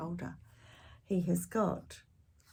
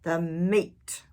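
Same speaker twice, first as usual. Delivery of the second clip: loud crew echo; rowdy pirate chorus; crew roar; 4 dB louder than usual. Acted. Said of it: "we all roared".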